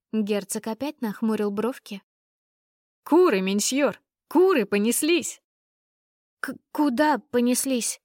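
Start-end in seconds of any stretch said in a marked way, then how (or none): 3.0-5.4 loud, breathless cook; excited cook shout. Acted. 6.4-8.0 hiccup. Acted. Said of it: "икнула я".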